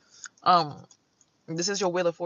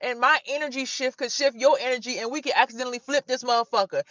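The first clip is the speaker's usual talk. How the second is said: higher, louder frightened plea; mock scared plea; 5 semitones higher, 5 dB louder than usual. Woman on the four-wheeler pleading with the driver, mock scared. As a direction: beg him to stop the wheelie. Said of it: "I'm like".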